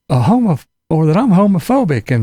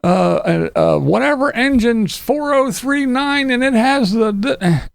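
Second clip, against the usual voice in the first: mock trainspotter glee; 7 semitones higher than usual. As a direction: play a train fan gushing over an engine. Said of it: "they watch".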